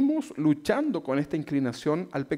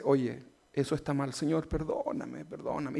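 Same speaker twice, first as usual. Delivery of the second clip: quiet contrite plea; 5 dB quieter than usual. Retold or imitated. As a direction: hush it, asking the Lord's pardon. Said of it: "el Espíritu Santo te dice".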